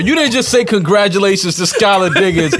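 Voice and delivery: shocked laughter. Real, not acted. Mock quoting the congrats.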